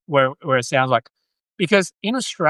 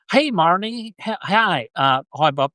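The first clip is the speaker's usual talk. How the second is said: American accent; 2 semitones higher than usual. Shown as a demonstration. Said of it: "So I sound like someone".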